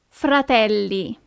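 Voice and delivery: fratelli slowly, fra-TEL-lee with double l; slow model word. Shown as a demonstration. Teacher slowly models fratelli for beginners. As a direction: stretch out fratelli for learners.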